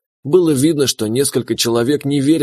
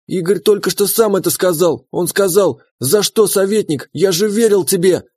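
shrill insistent accusation; 6 semitones higher than usual. Acted. Wife accuses, quoting dying prince.

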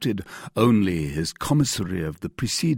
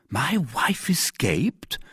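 high, slow, disbelieving question; astonished cry; 8 semitones higher, much slower than usual. A narrator's reading. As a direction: cry out in drawn-out dismay. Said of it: "cried Bonacieux".

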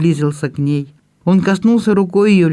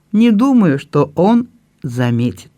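tender reassurance. Acted. Brother reassures his tearful sister tenderly. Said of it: "ласково ответил Люк".

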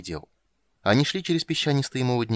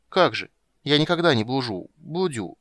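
put-on childish boast; 4 semitones higher, 5 dB louder than usual. A narrator's reading. Child Ciri voiced high.

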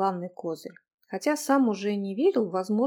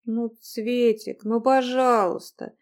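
gentle pleading; 5 dB louder, slower than usual. Acted. He begs her forgiveness.

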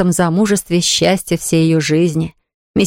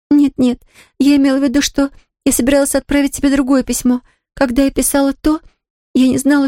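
put-on much higher, pleading girl's voice near tears; a frightened girl pushing her beloved away; distraught young girl; 7 semitones higher than usual. A narrator's reading. Distraught girl refuses Jimmy. (взволнованная девушка, высоким голосом, почти в слезах)

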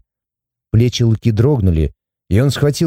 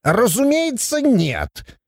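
«Разумеется» high and softer, backing down; instantly deflated; 10 semitones higher, 3 dB quieter, much slower than usual. A narrator's reading. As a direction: retreat meekly on «Разумеется, нет». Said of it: "и тут же сник".

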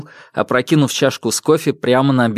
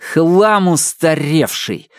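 through gritted teeth; 4 semitones higher, much slower than usual. Acted. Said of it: "процедил Феникс".

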